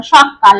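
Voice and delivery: সকাল said as শক্কাল with a doubled ক; emphatic geminate k. Shown as a demonstration. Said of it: "দুটো ক উচ্চারিত হলো".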